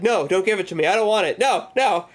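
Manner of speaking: a hint of hammed-up fear; mock panic. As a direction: back away from the worm in pretend alarm. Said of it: "And he's like".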